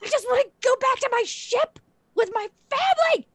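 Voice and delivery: very high, loud, hysterical pleading; swooning panic act. Acted. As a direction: play the frantic mother-to-be to the hilt. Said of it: "swooning in a completely believable way".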